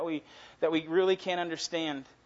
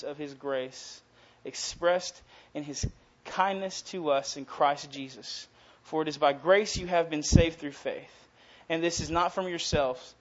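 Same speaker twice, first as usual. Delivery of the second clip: preaching; 3 dB louder than usual. Acted. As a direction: press each line home. Preaches the verses.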